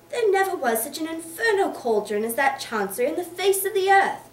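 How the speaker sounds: booming tirade climbing to a shout; furious rant. Acted. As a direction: rail against chancery at full force. Boythorn rants about chancery.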